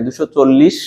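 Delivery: "চল্লিশ" with a held final sh; ish ending stressed. Shown as a demonstration. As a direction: linger on the end of "চল্লিশ". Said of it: "ইস আস".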